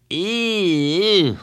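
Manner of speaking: high, drawn-out revulsion; disgusted girl. A narrator's reading. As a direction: say the name like something gross. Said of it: "making a face".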